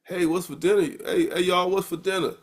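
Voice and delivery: casual African American vernacular at home, lightly done. Shown as a demonstration. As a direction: slip into relaxed home vernacular. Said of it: "African American vernacular".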